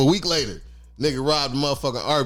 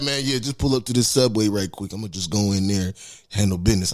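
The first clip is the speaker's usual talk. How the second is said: lightly voiced casual friend; 9 semitones lower than usual. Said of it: "He's like".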